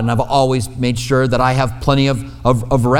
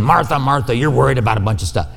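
rushed, brushing-off rebuke; dismissive; faster than usual. Retold or imitated. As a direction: rattle it off as if annoyed with her. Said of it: "I can't imagine him saying".

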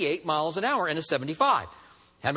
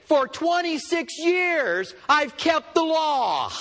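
indignant protest; 7 semitones higher, much slower than usual. Pretend. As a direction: shout out the injustice of it. Indignant speeder protests to cop.

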